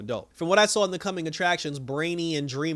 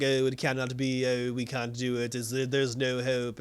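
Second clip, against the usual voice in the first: mock the dad moaning that all is lost; mopey whining dad; 4 semitones lower, slower than usual. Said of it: "Kara's dad is bitching".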